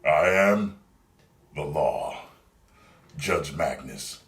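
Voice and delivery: lightly voiced tough movie lawman, slow at the end; a hint of an action-hero growl; Judge Dredd style movie line. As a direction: deliver it like a hard-boiled future cop. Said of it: "Watch this".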